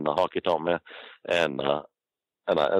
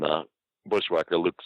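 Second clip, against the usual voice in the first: normal talking voice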